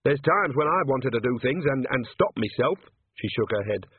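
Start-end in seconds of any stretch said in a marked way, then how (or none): 0.0-2.8 thoughtful. Acted. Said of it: "in a more thoughtful voice".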